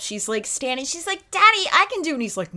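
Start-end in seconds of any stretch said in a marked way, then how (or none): 1.3-2.1 put-on high, pleading child voice, a little louder; mock a small girl begging her dad. Daughter begging her dad to help, high childlike plea.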